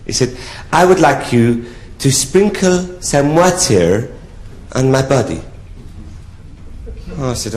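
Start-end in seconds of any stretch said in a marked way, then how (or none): 0.7-5.4 slow, higher French count voice; French accent. Acted. French count making an odd request, in a French accent. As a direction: draw out the request in mock French. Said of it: "he said to me in a French accent".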